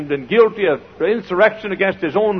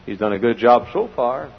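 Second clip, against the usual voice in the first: ordinary talk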